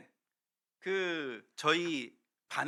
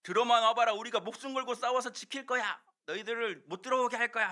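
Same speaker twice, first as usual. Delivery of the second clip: bold taunting challenge, pitched up; defiant soldiers; 5 semitones higher than usual. Acted. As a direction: dare the enemy to come in. Jericho soldiers taunting the enemy. (성벽 위 병사들이 도발하듯)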